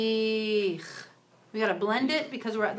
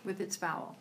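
whisper; 2 semitones lower, 5 dB quieter than usual. Real, not acted. Prompting student softly.

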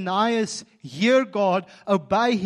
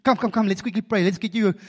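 hasty ninja pitch; 3 semitones higher, 6 dB louder, faster than usual. Retold or imitated. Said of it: "I can just jump out and".

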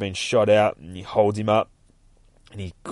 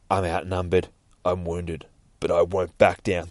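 lower, understated determination; grim hero resolve; 4 semitones lower than usual. Acted. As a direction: keep it low and steady. Wounded hero's resolve.

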